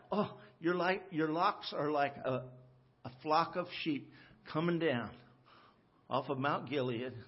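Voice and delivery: mock tender compliment. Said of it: "you should tell your wife".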